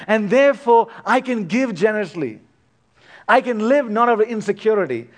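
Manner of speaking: a hint of a believer telling himself he can give freely; confident believer's voice. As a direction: speak as a trusting child of the Father, mildly. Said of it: "This is about saying".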